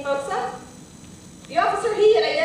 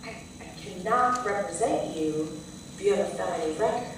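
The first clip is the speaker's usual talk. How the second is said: softly telling him no, dropping to a hush; hushed, apologetic but final; firm quiet refusal; 3 semitones lower, 8 dB quieter than usual. Retold or imitated. Lawyer to the would-be client, turning him away in a hush. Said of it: "I'm like".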